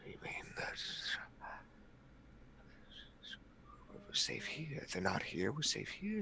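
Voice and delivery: faint whisper into soft murmur; very soft, pleading uncertainty; hushed disbelief. Acted. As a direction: question it in a tiny, shaken voice. Shaken character doubts the danger.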